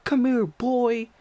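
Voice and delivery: high, loud "ha ha" into a holler; imitated screaming pursuer. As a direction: mimic a crazed chaser screaming. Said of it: "And he's screaming".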